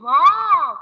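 loud, happy exclamation; a demo of joyful surprise; excited wow. Shown as a demonstration. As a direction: show delight. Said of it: "Now you're feeling very happy and you're expressing".

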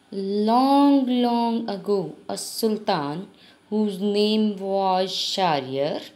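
slow, careful reading to pupils; measured classroom story narration; story read-aloud. A narrator's reading. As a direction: read it out slowly, phrase by phrase.

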